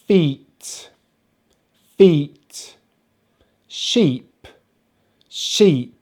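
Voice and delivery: "Feet", "Sheep" with long EE vowel; long EE demo. Shown as a demonstration. Teacher giving double-E examples, long clear EE in each word. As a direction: model each word alone, vowel held and falling. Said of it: "we have it spelt with two E's".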